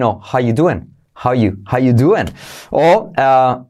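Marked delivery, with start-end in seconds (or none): 0.2-2.3 "How you doing" with "are" left out; relaxed dropped verb. Shown as a demonstration. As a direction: skip the verb, casual. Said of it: "el verbo está entre paréntesis".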